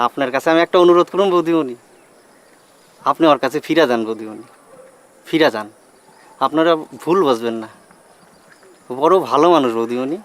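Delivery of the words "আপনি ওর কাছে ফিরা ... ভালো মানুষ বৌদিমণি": lowered, earnest plea; low-pitched heartfelt entreaty; gentle pleading. Acted. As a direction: plead with her respectfully, voice dropped low. Friend pleads with wife to return.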